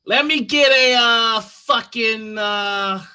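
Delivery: a rough, impatient customer ordering coffee; gruff customer. Acted. Gruff customer ordering coffee at the counter, pushy. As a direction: bark the order like you own the place.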